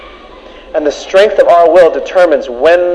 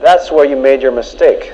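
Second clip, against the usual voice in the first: senior devil; 5 semitones lower than usual. Acted. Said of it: "said the senior devil".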